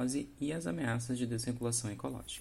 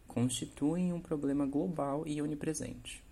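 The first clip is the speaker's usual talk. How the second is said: slow quoted phrase; 3 semitones higher than usual. Shown as a demonstration. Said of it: "abre aspas".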